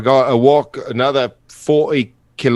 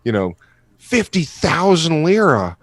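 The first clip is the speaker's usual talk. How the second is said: mock shock; 5 semitones higher than usual. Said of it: "I'm like".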